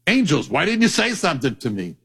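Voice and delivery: mock shocked God. God pretending surprise to the angels, mock shocked. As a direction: play innocent astonishment, tongue in cheek. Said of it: "act shocked".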